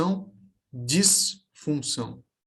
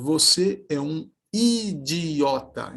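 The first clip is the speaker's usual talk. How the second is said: "Você é um idiota" said slowly, each syllable pressed; emphatic syllables; 3 semitones higher, slower than usual. Shown as a demonstration. Teacher showing a pupil slow, emphatic syllables. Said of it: "uma ênfase na pronúncia".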